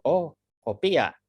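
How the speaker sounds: slow mock Japanese listener who gets it; a Japanese person finally understanding, slow. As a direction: lightly play a Japanese listener recognising the word. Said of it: "Itu bagi orang Jepang".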